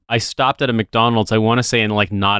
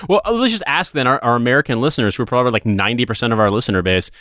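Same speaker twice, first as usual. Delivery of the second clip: lightly voiced Seinfeld impression; a hint of Seinfeld's standup lilt; Jerry Seinfeld voice. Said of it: "I'm doing Jerry Seinfeld voice".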